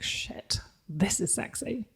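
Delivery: whispering. Retold or imitated. Inner thought retold.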